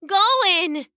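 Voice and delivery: high, delighted cat voice; happy she-cat greeting her friend; purring cat. A narrator's reading. Koma replying to Goen as they reunite, purring. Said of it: "purring loudly".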